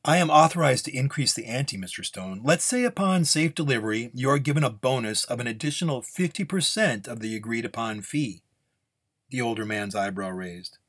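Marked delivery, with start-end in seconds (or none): 0.0-8.4 lightly voiced formal offer; formal negotiator. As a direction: make a measured business proposal. Client offers a bonus.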